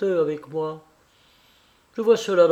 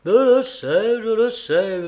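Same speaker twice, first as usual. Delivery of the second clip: eager; 6 semitones higher, 5 dB louder, slower than usual. Acted. Kolia eagerly agreeing.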